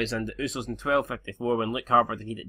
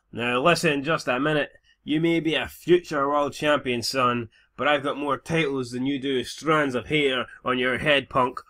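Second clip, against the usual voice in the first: Ric Flair impression; 2 semitones higher, 4 dB louder than usual. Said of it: "And Ric Flair goes".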